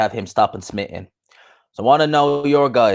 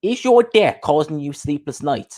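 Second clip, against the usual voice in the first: mock advert voice, higher and slow; Coogan; 5 semitones higher than usual. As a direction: put on a drawn-out ad intro. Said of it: "Coogan with".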